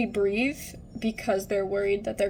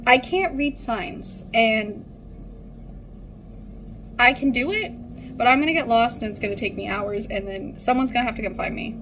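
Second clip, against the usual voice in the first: raised, pleading; 3 dB louder than usual. Retold or imitated. To the impatient nurse, explaining she can't read signs, raised and pleading. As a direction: insist you can't do it alone, voice raised. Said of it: "I was like".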